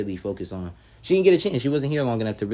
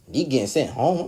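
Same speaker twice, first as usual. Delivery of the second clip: mildly raised, questioning disbelief; shocked; 4 semitones higher than usual. Retold or imitated. Telling viewers of Neek's exit, mildly shocked. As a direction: relive the surprise as a question. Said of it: "I was really shocked".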